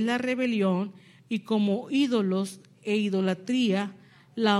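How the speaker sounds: loud, measured reading of the verse, slowing at the end; scripture reading. Acted. Preacher reading Samuel's rebuke aloud, loud and measured. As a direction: proclaim the verse to the congregation.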